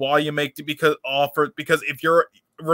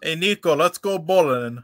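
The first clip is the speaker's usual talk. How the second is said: Eastern European cousin; 3 semitones higher than usual. Retold or imitated. GTA four cousin quote.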